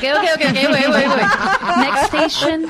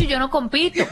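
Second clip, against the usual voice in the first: laughing quote; slower than usual. Retold or imitated. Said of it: "me hubiese dicho".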